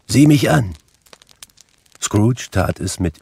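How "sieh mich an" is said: commanding ghost. A narrator's reading.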